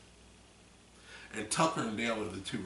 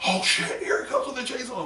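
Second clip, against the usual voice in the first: mock panic; 13 semitones higher, 9 dB louder than usual. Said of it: "and it's like".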